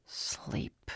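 sleepy whispered mutter. A narrator's reading. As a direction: mutter it half asleep. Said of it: "he muttered".

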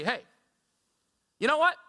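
a high, whiny string of excuses; pleading his case with a mock whine; excuse-making. Preacher voices a king making excuses, mock-whiny. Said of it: "He doesn't say".

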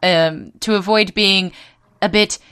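hammed-up posh British voice; put-on British accent, lightly done; mock British accent. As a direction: read it like a posh English gent. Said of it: "if I didn't do the accent, I kept tripping".

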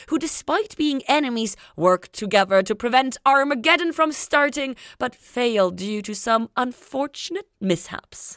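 storyteller's summary with lively pitch swings; mock-grand summary narration; episode summary read.

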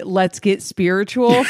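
cracking up mid-line; laughing through the catchphrase. Retold or imitated. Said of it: "straight-faced say".

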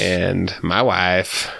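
slow, drawn-out catchphrase impression; Borat. Podcaster jokes about who he met, Borat impression. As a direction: stretch it out in a mock foreign comic voice. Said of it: "I met Borat's wife there".

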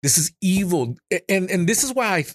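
upset and insistent; angered. Real, not acted. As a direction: cut in with real indignation. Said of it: "this is angering to me".

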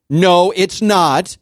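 hammed-up boy refusing to talk; imitating angry son. Father imitating his son denying he's upset, mock kid voice.

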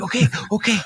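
high, hammed-up frightened okay; mock panicked okay. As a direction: flinch and squeak it. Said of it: "He's like".

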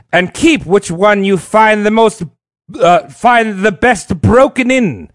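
put-on French ambassador accent; hammed-up French accent. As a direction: speak as a French envoy with a thick accent. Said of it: "It's a great French accent".

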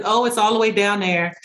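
lightly acted nonchalant store employee; mildly offhand, unbothered worker. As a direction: toss off directions as if it hardly matters. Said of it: "playing the nonchalant employee".

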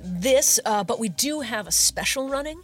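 chatty, upbeat salesman voice; eager shopkeeper. Acted. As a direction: pitch the goods like a friendly bro.

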